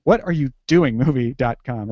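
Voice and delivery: "what are you doing" spaced out deliberately, then "movie dot com"; careful emphasis on "what are you doing"; exact title emphasis. Shown as a demonstration. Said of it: "getting the exact right".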